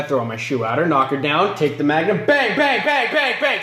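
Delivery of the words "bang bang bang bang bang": high, rapid-fire bangs; punchy spoken gun noises; imitated gunshots. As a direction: fire off each bang in quick succession.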